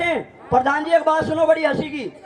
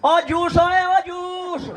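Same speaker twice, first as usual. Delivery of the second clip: higher-pitched mock boy calling out; लड़के की पुकार की नकल; 4 semitones higher, much slower than usual. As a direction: imitate a kid hollering for the juice seller. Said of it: "अब फिर देखो style कैसे बुला रहा". (लड़के की तरह ऊँची पुकार की नकल)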